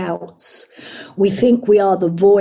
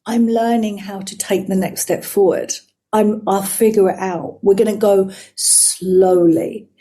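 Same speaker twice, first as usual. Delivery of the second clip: gentle self-talk; 2 semitones lower than usual. Retold or imitated. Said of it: "our job as mature human beings is to go".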